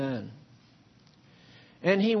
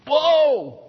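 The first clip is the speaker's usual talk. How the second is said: awed whoa; 10 semitones higher, 8 dB louder than usual. Acted. Awe at fellowship with God.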